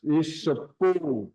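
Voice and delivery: Isupu with the final wa unvoiced; Isupu, last syllable breathed; voiceless wa. Shown as a demonstration. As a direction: end Isupu with a silent wa. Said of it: "it's just like a voiceless".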